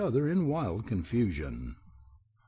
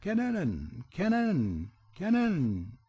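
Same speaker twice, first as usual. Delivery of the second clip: high, piercing bird cry; a bird's shrill battle cry over the castle gate; shrill pheasant scream; 7 semitones higher, slower than usual. A narrator's reading. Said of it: "screamed with a shrill voice".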